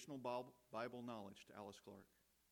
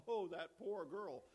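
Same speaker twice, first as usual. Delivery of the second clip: slow, higher cooing sympathy, imitated; mock pity; 5 semitones higher, 4 dB louder, slower than usual. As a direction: draw it out in put-on pity for her. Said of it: "you'd say".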